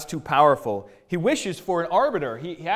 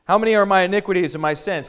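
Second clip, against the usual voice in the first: quick, raised challenge; bold challenge; 4 semitones higher, 6 dB louder, faster than usual. Retold or imitated. Job puts a bold question to God, challenging. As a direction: challenge boldly, higher and louder. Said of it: "He challenges God".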